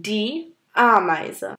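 Ameise said a-my-zeh, ei as eye; German demo word. Shown as a demonstration. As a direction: clear model of Ameise. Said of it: "Ameise বলা হয়". (Ameise উচ্চারণ আমাইজে)

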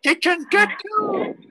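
teacher spelling it out slowly; slow teacher correction. Shown as a demonstration. Teacher correcting the student's French, slow and clear. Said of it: "C'est une gâteau".

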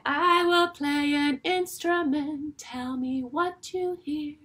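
play-time announcer voice; teacher leading a guessing game, playful; game prompt. Shown as a demonstration. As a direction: announce the game a touch sing-song. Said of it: "I will say".

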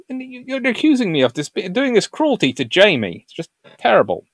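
high-pitched wounded protest; mock indignation. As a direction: protest as if falsely accused. Mock protest at being accused.

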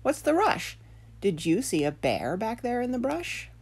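lightly voiced puzzled fisherman. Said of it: "said the fisherman".

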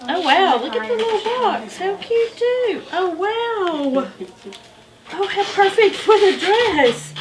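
high, delighted gasps at a gift; delighted surprise. Real, not acted. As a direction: coo over a cute present. Opening a gift box.

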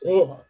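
short, frustrated "ugh"; exasperated groan. Real, not acted. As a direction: groan as if words fail you. Words fail her over the barrier.

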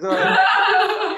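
a high, startled oh; caught-out oh. Retold or imitated. Shop guy caught out by Jordan, high sheepish oh. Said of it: "And he goes".

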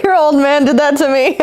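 laughing as you echo the line; amused echo. Retold or imitated. Viewer echoes Rocky's line, amused and laughing. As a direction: repeat it through a laugh.

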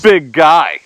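mildly mocking skeptic; light impression of a scoffer; scoffing. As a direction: question it like a doubting onlooker. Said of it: "Scoffers, right? I mean, that's really what they are".

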